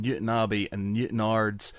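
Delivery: "Newton Abbey and Newton Ards", middle vowels swallowed; reduced local names. Retold or imitated. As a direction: say both "Newton"s with "town" shrunk to "tn". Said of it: "pronounce the whole thing".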